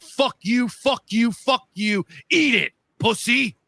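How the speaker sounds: very high-pitched retold victory jeers; gloating taunts. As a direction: rub it in, high and punchy. Reenacts taunting the losing team.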